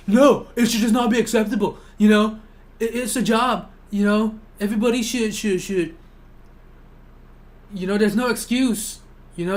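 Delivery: mocking voice of a smug classmate.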